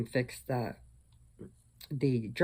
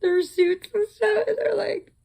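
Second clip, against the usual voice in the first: laughing; 14 semitones higher, 5 dB louder than usual. Real, not acted. Laughing while retelling the fiasco.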